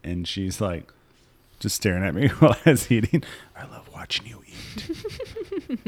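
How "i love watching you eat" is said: high, slow, breathy creepy voice; creepy coworker voice. Retold or imitated.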